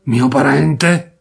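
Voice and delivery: slow, dumbfounded question; astonished. Acted. Narrator stunned at being called a relative, slow disbelief. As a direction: disbelief stretched out. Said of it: "esclamai, trasecolando".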